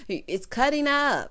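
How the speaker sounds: drawn-out, put-on confusion on a bad line; mock bad connection. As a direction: imitate someone faking a dropped call. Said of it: "tried to act like it was a bad connection".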